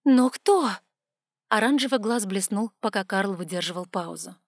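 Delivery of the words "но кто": high, loud demand; urgent question. A narrator's reading. Girl urgently asks who killed him, loud.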